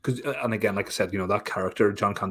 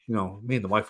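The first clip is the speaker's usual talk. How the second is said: normal talking voice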